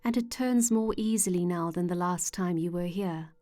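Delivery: calm, measured meditation voice with long pauses; unhurried guided-imagery narration, phrase by phrase. Acted. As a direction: gently guide the listener into relaxation.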